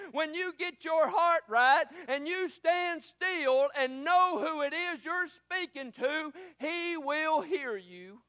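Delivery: a preacher building to a climax; preaching. Acted. Preacher opens with rising sermon.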